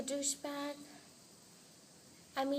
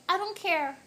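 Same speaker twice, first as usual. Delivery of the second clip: imitating a friend's cute, higher little voice; 6 semitones higher, 5 dB louder than usual. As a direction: mimic her tiny voice, pitched up and louder. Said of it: "the cutest little voice".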